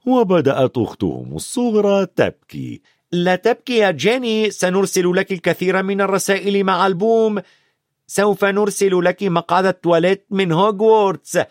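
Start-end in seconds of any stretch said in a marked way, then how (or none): 3.1-11.4 put-on higher, playful boy's voice; lightly voiced cheeky twin; teasing twins. A narrator's reading. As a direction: tease your sister. Twins teasing little sister.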